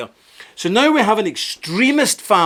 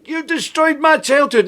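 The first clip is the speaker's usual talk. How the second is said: much higher mocking girl's voice; mock growling Greta; 9 semitones higher than usual. Mocking Greta's speech to viewers, high mocking growl. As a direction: sneer it out as the angry girl. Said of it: "she's growling at people".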